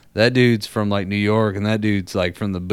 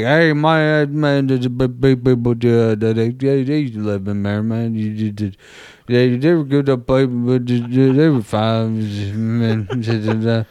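put-on mumbling old neighbour; slower than usual. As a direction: chew every word like marbles in the mouth. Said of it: "chewing on his words like he had marbles and peanut butter in his mouth".

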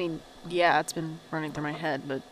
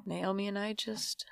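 near-whispered, much softer trailing word; quiet sadness; 6 dB quieter, slower than usual. Acted. Micah confessing the drift from Naomi, in a breathy near-whisper. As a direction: let the word fade to breath. Sad confession of lost sister.

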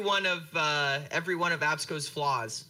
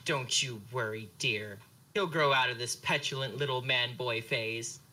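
sweet mom; 5 semitones lower than usual. Acted. Mom reassures Phaedra sweetly.

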